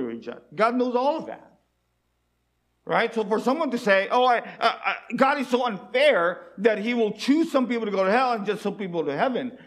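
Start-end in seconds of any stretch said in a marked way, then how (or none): 4.1-9.6 quoting the complaint through a laugh; laughing mock complaint. Preacher mocks people calling God unfair, laughing. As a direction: laugh while mimicking the objector.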